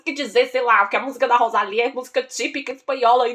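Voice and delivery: hammed-up exasperated telling-off; mock indignation. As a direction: scold him in exaggerated disbelief. Mock-indignant retort to the boy.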